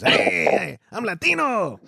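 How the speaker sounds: put-on a playful half-hearted Mexican accent; mock-proud Mexican accent, voiced up a little. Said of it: "I can do that accent".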